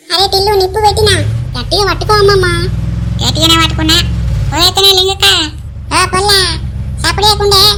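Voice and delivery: loud frantic village yelling as the rocket goes; excited shouting. Acted. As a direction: shout over each other in panic. Rocket lit, everyone yelling. (Rocket అంటించాక గట్టిగా అరుస్తూ)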